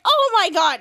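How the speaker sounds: acted-out cry of dismay; mock dismay. Retold horrified reaction to video.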